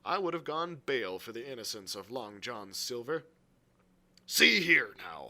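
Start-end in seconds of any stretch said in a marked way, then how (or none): 4.2-5.3 loud, slow, lower opening; earnest appeal. Acted. Silver turns to Hawkins to explain, earnest and loud. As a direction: call for attention with weight.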